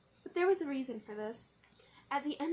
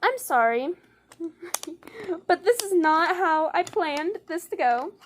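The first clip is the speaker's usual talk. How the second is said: laughing apology; 5 semitones higher, 9 dB louder than usual. Real, not acted. Apologising amid chaos.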